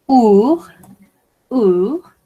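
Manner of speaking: "our" said oor, no final s sound; "our" with the s left mute; silent final s. Shown as a demonstration. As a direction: model word "our" without the s. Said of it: "On ne prononce pas le S".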